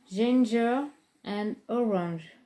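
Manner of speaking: slow, careful English accent on the palette name. Shown as a demonstration. Beauty vlogger reading a palette name to viewers, in a slow attempted English accent. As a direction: say the name like a Brit, drawn out. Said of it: "J'ai essayé de prendre un accent anglais".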